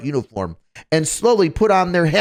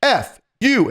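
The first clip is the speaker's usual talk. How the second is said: higher-pitched trainee answer; mimicking a trainee spelling out; 7 semitones higher, slower than usual. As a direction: call it out like a recruit reporting. Voicing trainee answering drill sergeant.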